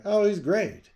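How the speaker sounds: loud, high mock New York voice; high-pitched New York accent. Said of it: "terrible New York high-pitched accent".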